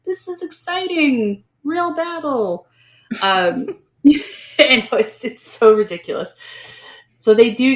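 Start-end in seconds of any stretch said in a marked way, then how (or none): 0.0-2.7 high, loud whoop that settles into higher, slower glee; giddy lieutenant. Retold or imitated. Lieutenant mock-cheering the charge into battle, high and loud. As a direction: play the lieutenant thrilled to charge. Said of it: "the lieutenant's like".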